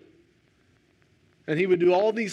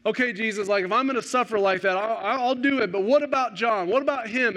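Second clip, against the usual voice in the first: higher, insistent plea as Peter; Peter pleading; 5 semitones higher than usual. Retold or imitated. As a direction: push back anxiously as Peter. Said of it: "And Peter cries out".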